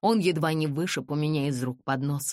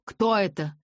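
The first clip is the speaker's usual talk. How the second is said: rising alarm; 3 semitones higher, 3 dB louder than usual. A narrator's reading. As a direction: ask again, more urgently. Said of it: "повторял он".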